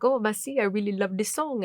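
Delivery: put-on light French-accented English; lightly put-on French accent. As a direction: imitate a Frenchman speaking English. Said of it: "I speak a little bit of French".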